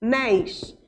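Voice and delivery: "Anéis" split into a, néis with a pause; syllable by syllable. Shown as a demonstration. Teacher finding the stressed syllable, "Anéis" broken into two parts. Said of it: "Qual é aqui essa sílaba".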